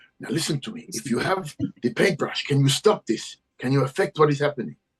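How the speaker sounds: intense, fierce, high, hard-pressed half-whisper. Voicing a character gripping someone by the lapels: fierce half-whisper. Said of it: "whisper to him fiercely".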